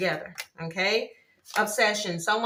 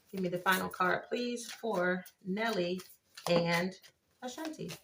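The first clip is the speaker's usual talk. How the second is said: soft plea; 6 dB quieter than usual. Real, not acted. Reader quietly begging the cards for one final card. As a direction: ask gently, drawing out please.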